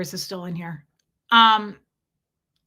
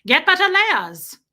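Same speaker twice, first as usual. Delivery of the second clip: slow, loud, high flat order; blunt Sophia; 8 semitones higher, 8 dB louder than usual. Shown as a demonstration. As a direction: pull no punches, slow and loud. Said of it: "like Sophia, just no, pull no punches".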